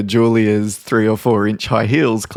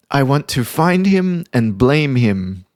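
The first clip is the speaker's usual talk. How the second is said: blunt boss; 5 semitones higher, slower than usual. Retold or imitated. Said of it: "she said".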